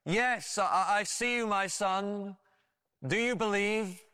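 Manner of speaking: mildly booming voice from above; booming heavenly voice. Retold or imitated. God answering the hanging man, in a lightly booming voice. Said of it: "a booming voice from heaven".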